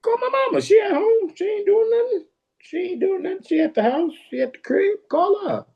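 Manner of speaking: high, eager caller voice; eager suggestion. Retold or imitated. Son telling the DJ to call his mama. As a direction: blurt it out proudly. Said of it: "So I was like".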